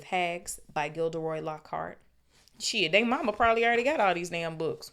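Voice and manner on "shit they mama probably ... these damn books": louder, higher, fed-up aside; incredulous complaint; exasperated outburst. Real, not acted. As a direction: grumble out loud at the cost. Aside reacting to book list.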